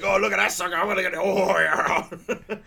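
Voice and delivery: high, loud, laughing mock excitement; excited mimicry. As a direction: ham up a giddy guy spotting a target. Mimicking excited guy in movie.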